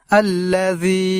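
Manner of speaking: আল্লাযী with the যী drawn out; teacher showing the long যী in আল্লাযী; elongated vowel. Shown as a demonstration. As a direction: stretch the যী of আল্লাযী. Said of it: "লম্বা উচ্চারণে টান দেব এইভাবে".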